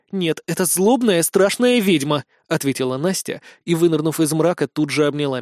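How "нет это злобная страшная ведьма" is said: slow, drawn-out mock menace; playfully spooky, stretched words; mock evil witch. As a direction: pretend to be a scary witch. Teasing pretence of being a witch.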